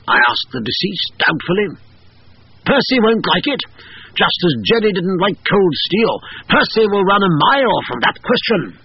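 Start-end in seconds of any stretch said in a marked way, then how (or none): 2.6-8.8 croaking. A narrator's reading. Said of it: "Miss Beasley croaked".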